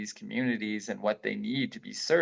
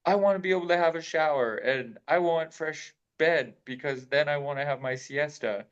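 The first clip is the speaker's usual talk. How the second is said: higher-pitched imagined complaint; mock freak-out; 4 semitones higher than usual. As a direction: lightly act out freaking out over small comforts. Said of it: "I could be freaking out".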